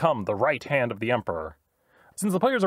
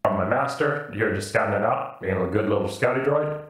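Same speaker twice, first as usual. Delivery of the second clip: droid voice; 5 semitones lower than usual. Acted. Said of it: "Did you say boop with".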